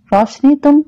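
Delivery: hesitant, breaking off mid-thought; narrated hesitation, trailing into a pause; halting. A narrator's reading. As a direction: falter after addressing her. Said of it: "वो रुक रुक कर बोला".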